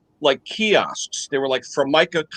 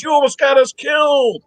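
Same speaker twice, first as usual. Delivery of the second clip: higher and louder, shouted; shouting; 8 semitones higher, 3 dB louder than usual. Retold or imitated. Teacher yelling at the student who nearly crashed. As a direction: yell it at the kid. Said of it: "he goes".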